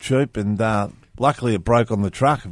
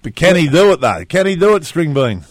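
excited race call; 5 semitones higher, 5 dB louder than usual. Pretend. Mock race commentator.

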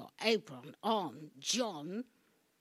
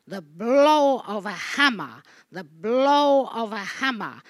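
shouted declamation; 12 dB louder than usual. Acted. Declaiming the play's refrain.

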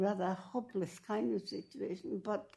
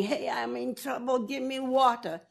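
higher, louder call for help; yelling for help; 6 semitones higher, 5 dB louder than usual. Retold or imitated. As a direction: call out for water, raised. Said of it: "Nobody was yelling".

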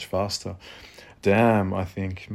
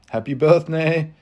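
laughing; 8 semitones higher, 7 dB louder than usual. Acted. Laughing after horse noises.

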